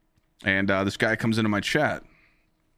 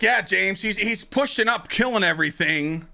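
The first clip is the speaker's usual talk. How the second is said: high, loud tattletale whine; high-pitched mock complaint; mock Coach tattling; 9 semitones higher, 4 dB louder than usual. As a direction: squeal on James like a snitch. Coach quoted complaining about James.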